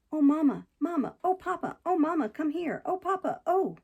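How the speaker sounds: high, wailing cries for mamma and papa; howling children. Acted. Heathcliff mimics the Linton children howling for their parents. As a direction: wail like spoilt children calling their parents. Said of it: "They really did howl out something in that way".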